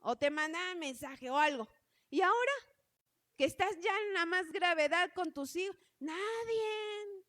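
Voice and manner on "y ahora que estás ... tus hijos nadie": higher, voice catching into tears; tearful. Real, not acted. Mother recalling no one called about her sick children, tearful and real. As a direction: let the hurt break through. Tells of being abandoned, crying.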